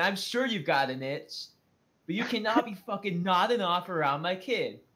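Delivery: mild, reined-in, scolding, angry yell. Retelling a passenger screaming at a junkie on the bus: imitating someone screaming. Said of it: "the fucking Colbert is screaming".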